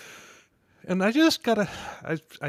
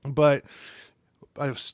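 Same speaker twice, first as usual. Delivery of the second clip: tipsy. Real, not acted. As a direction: speak like you've had a few. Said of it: "we all sound like drunk idiots".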